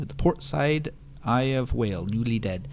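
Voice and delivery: put-on sing-song old witch voice; Granny voice. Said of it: "I'm not really good at the Granny voice".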